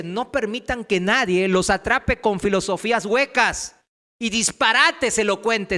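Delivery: loud, forceful verse reading; emphatic scripture reading. Real, not acted. Preacher reads Paul's warning to the church, loud emphatic reading.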